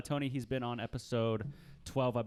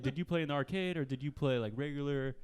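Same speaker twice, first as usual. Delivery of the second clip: eager gamer voice; 4 semitones higher than usual. Retold or imitated. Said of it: "It's like".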